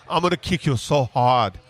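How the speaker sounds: lightly put-on French-Belgian action-hero accent. Retelling a podcast's Van Damme impression, light French-Belgian accent. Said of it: "with that French-Belgian accent".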